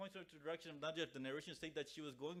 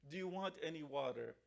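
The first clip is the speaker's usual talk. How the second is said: raised, pleading call of the repeated question; retold calling out. Rubab calls to the son in the desert, calling out. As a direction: imitate a mother calling out, voice lifted. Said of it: "call out my son's name".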